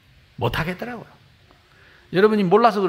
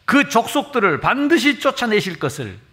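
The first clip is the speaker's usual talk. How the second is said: Joshua's proclamation; 4 semitones higher, 4 dB louder than usual. Acted. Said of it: "여호수아가 외쳤습니다".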